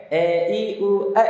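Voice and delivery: a drifting toward E, thin and narrow; too-thin fathah. Shown as a demonstration. Teacher demonstrating wrong thin vowels, a drifting to E. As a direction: squeeze the vowels thin so A slides to E. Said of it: "terlalu tipis sehingga miring ke E".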